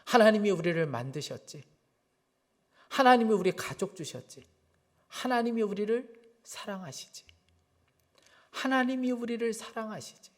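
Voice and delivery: each answer set apart by pauses, softening toward the end; distinct, measured answers. Retold or imitated. First-grader giving mother three reasons, retold distinct answers. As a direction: imitate a child answering carefully, point by point. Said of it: "또박또박 대답하는 거예요".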